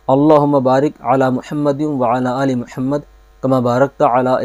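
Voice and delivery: measured darood, softening to the close; slow recitation. Shown as a demonstration. Teacher reciting darood once for students. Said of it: "میں ایک بار بتا دیتا ہوں".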